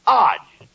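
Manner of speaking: "age" said as "ahzh"; demonstrated pronunciation. Shown as a demonstration. Straight man teaching his partner the word ending, "age" said as "ahzh". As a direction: sound out "age" loudly as one long "ahzh". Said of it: "is pronounced like".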